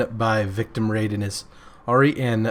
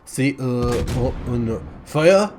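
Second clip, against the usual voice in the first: joking, slow, hammed-up French accent; a silly put-on French accent with broken phrases; mock French accent; slower than usual. Clowning for viewers in a mild mock French accent. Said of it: "speaking in a French accent".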